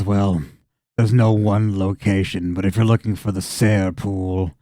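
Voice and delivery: lightly voiced farmer, slow and low; a touch of a resigned farmer; simple farmer, reluctant. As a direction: give directions with weary reluctance.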